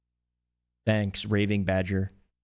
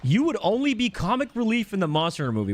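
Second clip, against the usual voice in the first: higher monster voice, a touch of mock complaint; Khezu voice; 8 semitones higher than usual. Streamer voicing Khezu for a chat request, lightly higher. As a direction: put on a higher creature voice. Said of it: "He goes".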